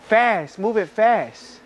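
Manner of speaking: jokingly. Retold or imitated. Man claiming he only said it in jest, jokingly. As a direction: stretch out a teasing "move it fast".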